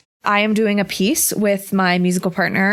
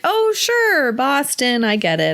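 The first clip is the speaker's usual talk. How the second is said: put-on Boston accent. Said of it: "how to do a Boston accent".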